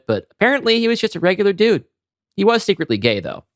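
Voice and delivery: casual young guy, barely acted; lightly voiced Keith. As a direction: read Keith's gossip offhand and chatty. Reading Keith's lines in script.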